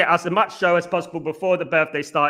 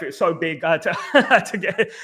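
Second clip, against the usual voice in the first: laughing. Real, not acted. Laughing about the big gift.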